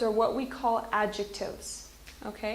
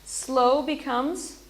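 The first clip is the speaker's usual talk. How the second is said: plain; 4 dB louder, slower than usual. Shown as a demonstration. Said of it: "Okay, so watch this".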